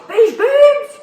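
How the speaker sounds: shouted team chant; team cheer. Retold or imitated.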